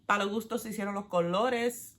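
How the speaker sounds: native Spanish accent. Real, not acted. Quoting a saying in her own language, Spanish accent. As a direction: say it in fluent, natural Spanish. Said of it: "that's my actual accent".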